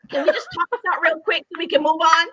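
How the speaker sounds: rushed, laughing run-through of the line; fast and laughing; quick request. Retold or imitated. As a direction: hurry it out with a laugh. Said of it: "I said".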